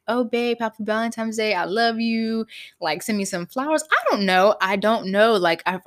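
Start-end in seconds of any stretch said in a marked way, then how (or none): 0.1-2.5 put-on imagined loving boyfriend. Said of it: "expecting my boyfriend to be like".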